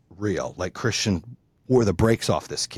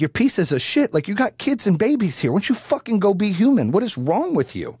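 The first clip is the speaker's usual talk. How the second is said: higher-pitched, exasperated tirade; losing it; 7 semitones higher than usual. Retold or imitated. Parent berating the other couple, losing it. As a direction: re-enact losing your temper at them. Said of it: "I was losing it".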